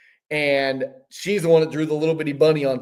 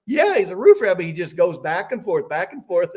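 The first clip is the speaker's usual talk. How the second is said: high, lightly imitated German accent; 4 semitones higher than usual. Amish man confirms his joke, high mock German accent. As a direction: mimic the amused Amish man's German accent. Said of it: "his German voice".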